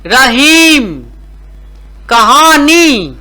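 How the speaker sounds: slow word-by-word dictation with stretched long vowels; teacher drawing out every long ee; reading drill. Shown as a demonstration. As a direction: read each word out clearly, pausing after it. Reads out a word list.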